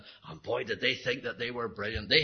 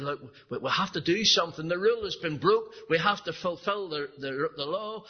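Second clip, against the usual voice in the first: grieved teacher; 6 semitones higher than usual. Retold or imitated. Teacher voiced in sermon story.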